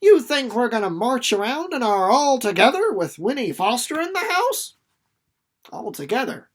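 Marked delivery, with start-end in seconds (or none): 0.0-4.7 teasing. Acted. Son teasing his mother.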